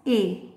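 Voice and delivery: final "a" said eh, as starts elbow; short E sound. Shown as a demonstration. Teacher explains short E to learners, "a" said eh. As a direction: end on "a" sounded as eh. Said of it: "The short sound of E".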